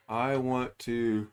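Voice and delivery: talking through a yawn; words stretched by a yawn. Real, not acted. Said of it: "oh, sorry about yawning".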